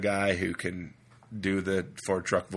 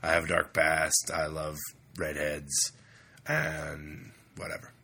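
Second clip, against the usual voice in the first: lightly voiced Wolverine; slower than usual. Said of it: "what else does Wolverine say".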